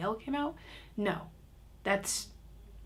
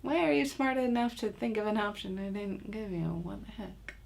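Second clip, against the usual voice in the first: exasperated parent. Retold or imitated. Exasperated parent retelling own reaction.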